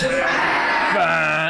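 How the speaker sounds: long bleated "bah" alarm; buzzer noise. Shown as a demonstration. Leading children in the detector game, imitated buzzer noise. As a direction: sound the baloney detector. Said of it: "your baloney detector".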